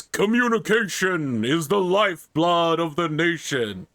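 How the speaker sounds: lightly voiced wizard; a hint of a grand old wizard; Magnus the White. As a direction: pronounce it like a sage. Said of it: "totally Gandalfing".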